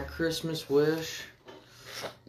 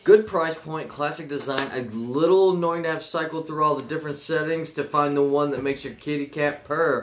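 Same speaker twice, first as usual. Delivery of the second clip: smooth product pitch, selling hard; sleazy salesman. Acted. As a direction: read it like a pushy salesman. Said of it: "Put on your good salesman voice".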